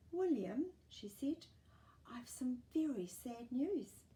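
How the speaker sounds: slow, hushed grave mother; serious mum. Acted. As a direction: break bad news gently. Mum brings sad news.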